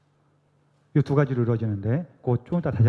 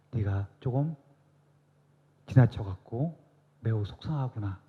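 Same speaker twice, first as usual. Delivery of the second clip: soft, unhurried consolation, fading quieter at the end; gentle comforting Jesus; 3 dB quieter than usual. Pretend. Preacher voicing Jesus consoling a parent who scolded, softly. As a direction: speak as Jesus tenderly reassuring a guilty parent. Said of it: "예수님은 그 순간에 우리한테 뭐라고 하시냐면은".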